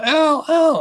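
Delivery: high, loud eager call across the street; calling out a name. Retold or imitated. Woman running out of a building, calling to an old friend, high loud eager call. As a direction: shout his name to catch him, delighted.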